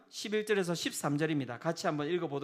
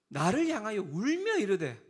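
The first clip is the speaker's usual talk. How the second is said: usual speaking voice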